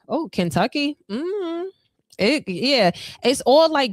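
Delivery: light up as the answer lands; excited hunch. Real, not acted. Tarot reader sensing Kentucky for her client, a rising excited realisation. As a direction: pitch leaps up on a sudden realisation.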